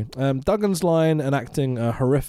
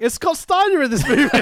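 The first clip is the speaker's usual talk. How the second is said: high, louder giddy fan exclamation; mock excited; 13 semitones higher, 5 dB louder than usual. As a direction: gasp it out like a thrilled wrestling fan.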